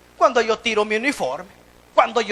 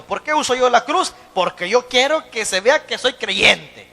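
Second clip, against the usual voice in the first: quoting the pastor; 2 semitones higher, 4 dB louder than usual. Retold or imitated. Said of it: "Nuestro pastor general siempre nos enseñó".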